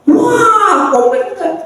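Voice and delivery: high, hammed-up burst of anger; mock an instant angry outburst; angry retort. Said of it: "langsung marah dan berkata".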